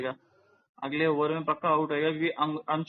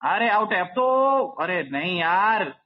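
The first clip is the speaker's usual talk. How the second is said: excited cricket commentary; 2 semitones higher, 4 dB louder, slower than usual. Real, not acted. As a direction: call the catch, then groan. Calling a catch live. (उत्साहित commentary)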